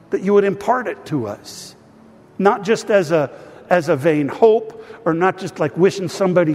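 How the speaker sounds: earnest spoken prayer to God; a pastor praying over his people; pastoral prayer. Acted. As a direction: pray aloud for the whole congregation. Leads congregation in prayer.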